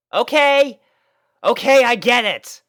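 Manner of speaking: high, loud dry brush-off. A narrator's reading. Rainbow sitting up from the puppies, dry and done. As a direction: say it flatly, fed up. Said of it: "she said dryly".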